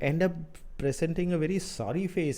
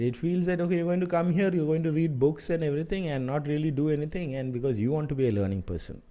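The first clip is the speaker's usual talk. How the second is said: sarcastic, raised and mocking; mock the lazy applicant's excuse; 4 semitones higher, faster than usual. Real, not acted. Mentor mocking would-be learners who won't work, sarcastic. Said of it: "I'm sorry if I sound little sarcastic".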